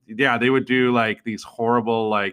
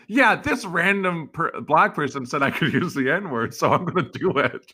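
higher-pitched, cocksure excuse; mock self-justifying; 5 semitones higher than usual. Mocking people who claim borrowed permission, mock self-justifying. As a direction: imitate someone granting themselves permission. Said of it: "those are always the hilarious ones".

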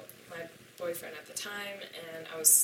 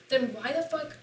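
angry outburst; 6 semitones higher, 6 dB louder than usual. Retold or imitated. Confronting him in a retold argument.

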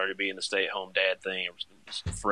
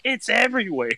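very high, louder wail of despair; mock despair; 13 semitones higher, 6 dB louder than usual. Dad retelling his horror at the mess, high and wailing. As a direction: squeal it in exaggerated horror. Retold panic at diaper mess.

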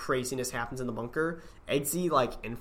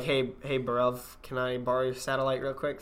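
mock London slang, easygoing; a cheeky lightly done British voice; British accent. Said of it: "I love your British accent".

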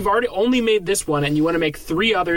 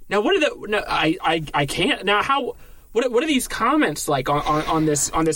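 mock excitement. Investor keeps gushing.

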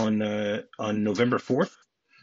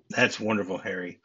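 sarcastic; 3 semitones lower than usual. Retold or imitated. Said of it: "her sarcastic".

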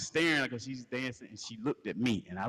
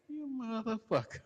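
choking curse; 9 semitones higher than usual. Retold or imitated. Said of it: "And I'm like".

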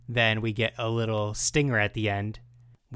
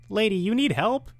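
lightly voiced concerned passerby, pitched higher; a quick higher mock call from a cyclist; passerby asking; 9 semitones higher than usual. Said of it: "A guy on a bike rides by and goes".

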